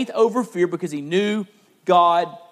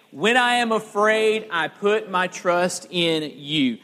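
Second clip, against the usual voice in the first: led recitation; slower than usual. Shown as a demonstration. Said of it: "Let's say it together".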